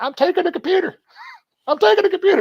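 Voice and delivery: put-on strong Southern accent, very high-pitched, swooping. Retelling what a man grabbing a laptop said: imitating a southern accent. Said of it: "real Southern accent".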